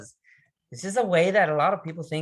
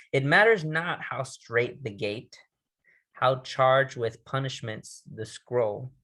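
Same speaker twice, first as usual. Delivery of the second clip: slow, deliberate quoted line; measured recitation; poem recital; slower than usual. Acted. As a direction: lean into each word like a vow.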